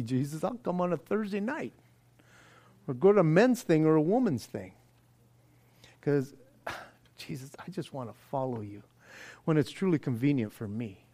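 quiet, grudging mock prayer. Reluctant churchgoer quietly bargaining with Jesus, mock sigh. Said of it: "That's the way it usually sounds".

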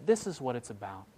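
gentle reassuring quote; tender. Retold or imitated. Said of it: "and just so tenderly says".

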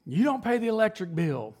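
lightly mock a father nagging about the bill; imitating dad scolding. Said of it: "my dad used to rail us about that".

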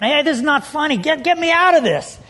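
mock exasperation, pitch climbing; acted indignant protest. Handcuffed boy to laughing buddies, indignant. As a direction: protest to the pranksters, rising in urgency.

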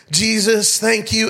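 lightly hammed-up amplified prayer; karaoke-mic prayer. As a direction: imitate praying into a karaoke microphone. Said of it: "there's, like, this, this karaoke echo".

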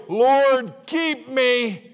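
half-laughing plea for help; desperate prayer. Retold or imitated. Preacher retelling his prayer while driving in the Orient, panicked. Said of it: "There were several times when I prayed".

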